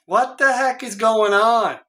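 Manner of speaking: ordinary talk, nothing marked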